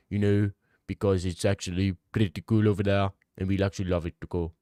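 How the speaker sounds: mock South African accent, drifting; lightly hammed South African tour guide. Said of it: "I'm getting too Indian now with the South African accent".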